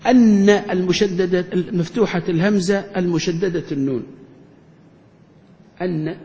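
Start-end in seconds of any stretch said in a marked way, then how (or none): 0.1-1.5 drawn out slowly for the class; slow emphasis. Shown as a demonstration. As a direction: lay the term out slowly. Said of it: "يعني عندنا".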